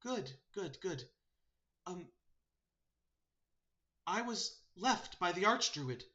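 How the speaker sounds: high talking-bird voice; earnest sparrow messenger. Acted. Sparrow relaying the archdruid's message, high voice.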